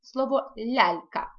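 "лялька" slowly, soft palatal l at both ends; soft l demo. Shown as a demonstration. Teacher shows pupils how to say soft l, slowly. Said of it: "Є слово".

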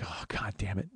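low, soft, defeated curse; quiet exasperation. Retold or imitated. Man hearing his surprise flopped, quietly exasperated. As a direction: curse under your breath, low and resigned. Reacts to her saying "nothing.

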